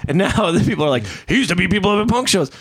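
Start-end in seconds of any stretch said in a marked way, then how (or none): 1.3-2.5 rising to a shrill mock shout; mock outraged crowd. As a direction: whip up an angry mob. People turning on him, mock outrage.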